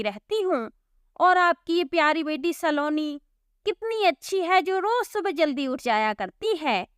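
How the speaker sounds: lightly voiced bitter girl, scolding; resentful sister. Divya blames her sister and drives Gabru away, resentful. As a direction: lash out in hurt anger.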